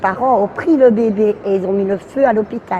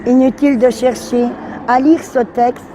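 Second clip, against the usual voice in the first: measured reading of own verse; poem recitation. Acted. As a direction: read it out line by line with pauses. Reads own text on request.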